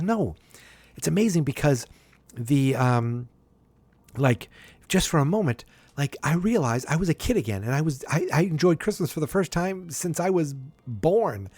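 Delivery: high-pitched, mildly excited retelling. Retold or imitated. Frasier explaining his rediscovered joy of Christmas, excited. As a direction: imitate a man lit up with wonder. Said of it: "And he's all excited".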